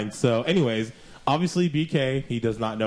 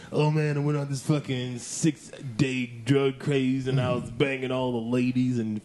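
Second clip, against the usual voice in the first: slightly slow, put-on druggie ramble with a woo; B K on drugs; slower than usual. Host mocking his friend's made-up festival story, drugged-out impression. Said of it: "That's my impression of B K on drugs".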